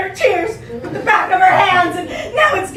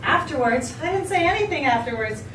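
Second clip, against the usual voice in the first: mild annoyance; 4 semitones lower, 4 dB quieter than usual. Acted. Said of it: "in a tone of mild annoyance".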